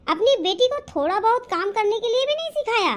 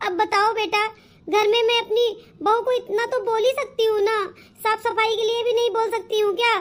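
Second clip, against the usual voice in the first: acted crying. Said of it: "जो मेरी माँ रो रही है".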